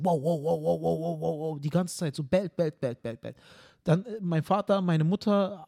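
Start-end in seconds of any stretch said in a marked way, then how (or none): 0.0-1.6 imitated barking. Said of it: "Aslan bellt die ganze Zeit".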